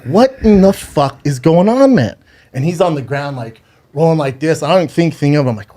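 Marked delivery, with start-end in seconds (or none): 0.1-2.2 disbelief. Retold or imitated. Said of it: "And I'm like".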